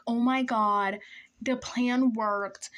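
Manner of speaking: drawn-out, slightly lifted excitement; retold freaking out. Teller reliving the bus ride home, freaking out. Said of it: "I'm freaking out".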